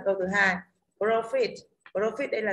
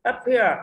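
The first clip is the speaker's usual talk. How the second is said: Up here with HERE hit louder; stress on HERE; 3 semitones higher, 7 dB louder than usual. Shown as a demonstration. Teacher explains the unstressed first sound, stress on here. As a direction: lean on here, keep Up light. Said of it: "âm here nhận trọng âm".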